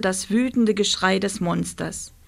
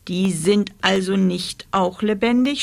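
stammering. Acted. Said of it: "stammelte Rosa".

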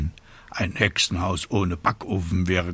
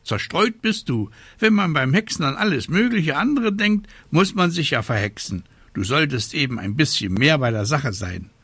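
high, scolding raven voice; croaking raven; 6 semitones higher than usual. A narrator's reading. Raven telling the witch she is scatterbrained, scolding high. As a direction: lecture in a raised bird voice. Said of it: "krächzte der Rabe Abraxas".

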